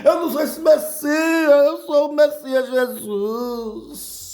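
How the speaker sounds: high comic protest, slowing at the end; Jesus esbravejando. Retold or imitated. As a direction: insist indignantly, half laughing. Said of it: "Jesus começava a esbravejar". (protesto exagerado, quase rindo)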